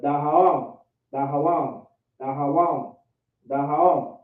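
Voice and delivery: DAHAWAM run together, repeated evenly. Shown as a demonstration. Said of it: "I'm just saying it a little faster".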